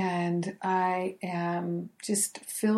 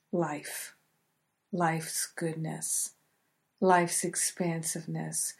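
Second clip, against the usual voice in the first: measured prayer with pauses between phrases; spoken prayer. Real, not acted. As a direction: lead listeners in a prayer of gratitude. Leads the day's prayer.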